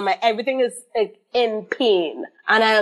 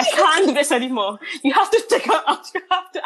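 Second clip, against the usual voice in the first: higher, pleading through laughter; desperate plea; 5 semitones higher, faster than usual. Retold or imitated. Mother in labor begging the midwife, high pleading. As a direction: beg like you can't take it.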